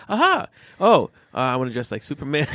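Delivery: son's eager voice. Retold or imitated. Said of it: "It's like".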